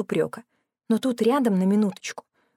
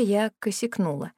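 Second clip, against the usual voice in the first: usual speaking voice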